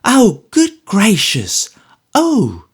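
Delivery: high, very slow, shrill mocking girl's voice; Judy mocking the visitors with a shrill cry. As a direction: jeer like a spiteful girl. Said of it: "shrill spectre cries out in a mocking manner".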